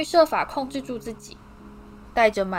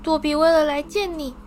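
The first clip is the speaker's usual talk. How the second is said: eager house-elf Dobby; 8 semitones higher than usual. A narrator's reading. Dobby thrilled to finally meet Harry, high squeaky voice. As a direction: squeak it out, overjoyed.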